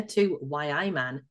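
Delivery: a slow, half-hearted stab at a Geordie "why aye man"; poor Newcastle accent. Acted. Reading the trap list, he slips into a poor Newcastle accent. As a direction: drawl "Y I Man" like a mock Newcastle local, badly. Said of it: "I can't say trap two in any other accent than a really poor Newcastle one".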